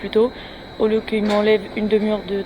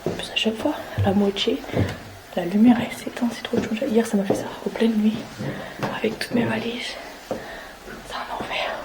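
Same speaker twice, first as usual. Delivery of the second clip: un peu essoufflée en montant l'escalier; en montant les escaliers; 4 dB quieter than usual. Real, not acted. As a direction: parle en grimpant les marches. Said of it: "je monte les escaliers". (en montant les escaliers, le souffle court)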